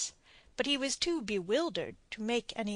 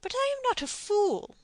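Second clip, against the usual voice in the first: much higher, firm retort; Captain Blood; 12 semitones higher, 3 dB louder than usual. A narrator's reading. Blood rebuffs the don's plea, firm. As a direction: cut the argument short.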